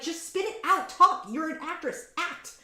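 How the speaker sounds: high, impatient outburst at the actress; exasperated retort. Retold or imitated. Yelling at a bad actress on screen, high exasperated. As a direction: tell her to spit it out, exasperated. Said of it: "I'm just like".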